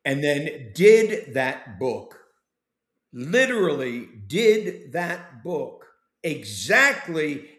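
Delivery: whispered slowly, pressing on "did"; slow intense whisper. Real, not acted. Praising Ken to the host, a slow emphatic whisper. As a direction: lean in and whisper it with weight. Stressing Ken followed the book.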